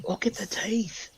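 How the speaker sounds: high, soft put-on voice; mock dread in a hushed squeak; mock alarm. Player joking about a squirrel's teeth, mock alarm.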